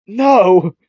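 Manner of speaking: loud high shouted no; high, loud protest; sharp no. Retold or imitated. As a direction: bark a quick refusal. Midoriya refusing the massage.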